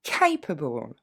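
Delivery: capable in one go, weak ending; model pronunciation. Shown as a demonstration. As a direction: say capable whole, able unstressed. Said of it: "Et en un coup". (capable d'un seul coup)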